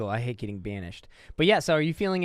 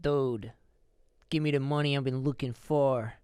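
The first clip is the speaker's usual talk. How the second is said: attempted Italian accent; slower than usual. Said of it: "That's Italian".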